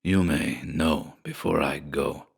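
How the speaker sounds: put-on low, slow, gruff older man; gruff father. A narrator's reading. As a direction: answer gruffly, slow and subdued. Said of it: "returned the other gruffly".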